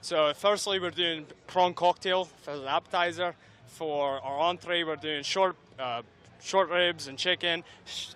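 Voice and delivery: light, playful put-on Scottish accent. Host asks her for the dinner menu, lightly Scottish accent. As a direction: read the menu in a hint of a Scottish brogue. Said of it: "tell me the menu in a Scottish accent".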